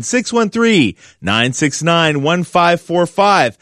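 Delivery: slow, measured repeat of a phone number; real slow. Real, not acted. Radio host repeating the call-in number for listeners, real slow. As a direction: spell out each digit unhurriedly. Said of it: "I'm gonna say it real slow".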